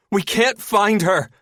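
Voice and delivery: high, loud, slow call; yell. A narrator's reading. Searcher calling from deck into the cabin, yelling. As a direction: yell it down to someone below. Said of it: "Linda yells down".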